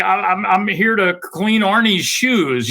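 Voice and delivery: lightly voiced humble joke; self-mocking joke. Chi-Chi jokes to the gate guard, slow and self-mocking. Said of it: "he would just say".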